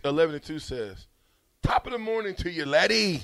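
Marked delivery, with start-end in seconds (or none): 1.6-3.2 mock Irish greeting; Irish impression. Host reading listener's message, mock Irish accent. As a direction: put on a stagey Irish accent. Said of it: "There you go".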